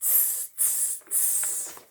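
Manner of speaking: soft voiceless tss, tss, tss like chattering monkeys; monkey tsking. Acted. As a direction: hiss it back like cheeky monkeys. Monkeys mock the peddler back.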